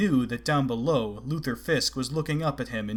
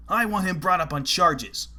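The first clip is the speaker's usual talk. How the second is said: demanding; 6 semitones higher, 5 dB louder than usual. A narrator's reading. Fisk demands charges.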